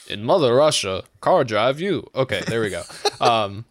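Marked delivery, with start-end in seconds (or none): 0.1-2.1 hammed-up Russian accent, the classic joke line; mock Russian accent. Host warming up his Russian impression with a joke. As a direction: put on a jokey Russian voice for the punchline. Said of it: "let me get my Russian".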